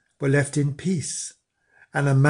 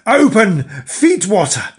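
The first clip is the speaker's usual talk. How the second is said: loud, high demanding shout; shrill furious shout; witches screaming; 5 semitones higher, 6 dB louder than usual. A narrator's reading. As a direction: scream the command at the door. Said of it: "they screamed".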